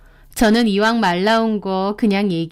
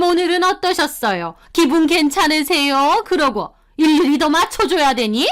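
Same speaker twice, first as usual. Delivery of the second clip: higher, indignant mother-in-law voice; mother-in-law taking offense; 5 semitones higher than usual. Acted. Mother-in-law rebuking her daughter-in-law, indignant and higher. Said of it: "퍼부으시더라고요".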